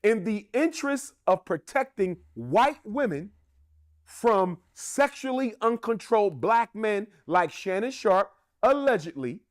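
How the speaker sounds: dry mock concern, lightly sarcastic. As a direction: say it with a sarcastic edge. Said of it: "I'm being sarcastic on purpose here".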